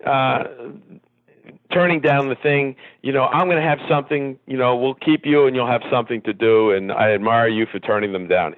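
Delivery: a hint of the owner's New York accent. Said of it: "in his accent".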